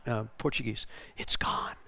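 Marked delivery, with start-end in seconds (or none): 1.2-1.8 hushed, barely voiced; awed whisper. Freed woman looking at the team, hushed whisper. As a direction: whisper it in wonder.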